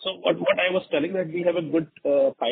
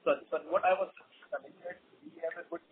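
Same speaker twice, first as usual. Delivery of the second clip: very faint, far from the mic; speaking too far from the microphone; barely audible; 11 dB quieter than usual. Real, not acted. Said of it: "Sir, you are still not audible".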